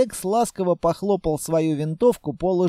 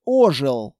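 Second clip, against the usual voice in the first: ordinary talk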